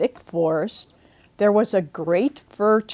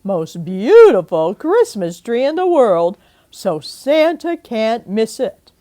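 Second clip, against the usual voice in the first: eager Aunt Mim; 2 semitones higher, 8 dB louder than usual. Acted. Aunt rousing the family to decorate, loud and eager. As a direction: urge them out with excitement.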